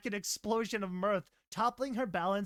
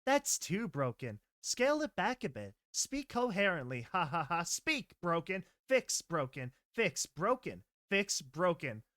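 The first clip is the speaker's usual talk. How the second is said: talking to herself. Acted. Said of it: "spoke to herself".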